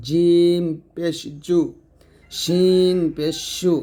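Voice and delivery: জিম and শিন drawn long from mid-tongue; palatal letters. Shown as a demonstration. Teacher drills palatal letters, long জিম and শিন. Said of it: "জিব্বার মধ্যখান তার বরাবর উপর তালুর সঙ্গে".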